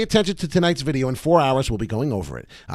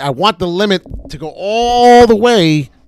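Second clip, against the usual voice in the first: very loud, rising raised voice, building in volume; 6 semitones higher, 9 dB louder than usual. Explaining a stock sell limit to listeners and getting worked up: loud. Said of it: "I'm sorry, I'm getting loud".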